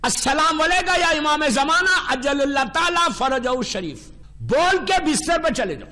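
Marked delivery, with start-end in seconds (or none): 0.0-4.1 measured devotional salutation to the Imam; recited greeting. Shown as a demonstration. Preacher shows listeners the bedtime salutation, devout recitation. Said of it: "رکھ کے دو جملے بولو".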